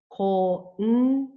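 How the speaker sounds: "Konnichiwa" in five separate beats, ko-n-ni-chi-wa; five syllables. Shown as a demonstration. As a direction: count out "Konnichiwa" syllable by syllable, humming the n. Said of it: "It is a five-syllable word".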